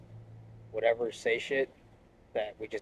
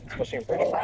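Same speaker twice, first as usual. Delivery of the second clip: breathy unvoiced aside; whispered; much faster than usual. Real, not acted. Telling the interviewer about Bridgeport, whispered aside. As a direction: say it under your breath, amused. Repeats phrase, first take whispered.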